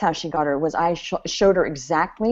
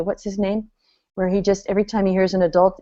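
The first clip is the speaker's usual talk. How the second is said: normal talking voice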